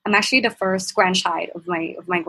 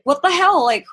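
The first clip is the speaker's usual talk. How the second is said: shocked; 5 semitones higher than usual. Retold or imitated. Groped from behind, startled cousin yelling out. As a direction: blurt it out, caught off guard. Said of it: "I was shocked".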